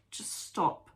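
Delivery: quiet, measured request, nearly whispered at first; calm guiding voice. Retold or imitated. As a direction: imitate a gentle voice breaking in. Voices calm inner voice she heard.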